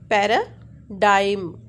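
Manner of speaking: "para", then "daim", slowly in two parts; syllable breakdown. Shown as a demonstration. Teacher breaking a word into syllables, slow split "para - daim". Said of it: "stress on P".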